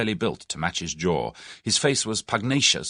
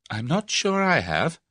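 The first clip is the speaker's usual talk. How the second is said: darkly; 8 semitones higher, slower than usual. A narrator's reading. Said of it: "said Tuppence darkly".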